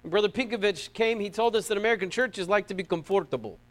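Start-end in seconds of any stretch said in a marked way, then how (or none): 1.8-3.6 lightly imitated Belarusian accent. Preacher quoting a visiting brother, imitated Belarusian accent. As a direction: do your best attempt at a Belarusian accent. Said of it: "that's my best Belarusian accent".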